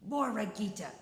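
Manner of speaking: loud call of her name; cried out. Acted. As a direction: Coyote leaps out and calls her. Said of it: "he cried". (Coyote llama fuerte a Borreguita)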